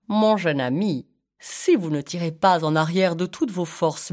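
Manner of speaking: lightly voiced pompous python; a hint of a formal snake; python's manner. Python advising the elephant child, lightly pompous. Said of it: "Il parlait toujours comme ça".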